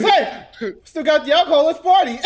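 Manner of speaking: high, loud, laughing party invite; laughing loud party cheer; giddy party call. Acted. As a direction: whoop it up through laughter. GM voices Tyler partying.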